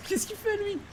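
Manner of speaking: high, slow, wailing mock despair; Flyfire in despair. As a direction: stretch it out like a hammed-up cry of doom. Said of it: "Ça, c'est Flyfire quand il". (voix aiguë et traînante, désespoir surjoué)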